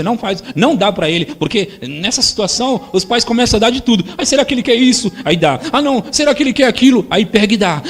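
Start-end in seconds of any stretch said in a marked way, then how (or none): 4.2-5.1 higher, louder anxious parent; mock a worried parent fussing; fretting parent. 5.7-7.1 higher, louder anxious parent; mock a worried parent fussing; fretting parent.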